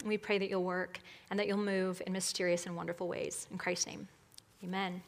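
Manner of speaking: subdued opening prayer, easing down to amen; public prayer. Real, not acted. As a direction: pray quietly before the congregation.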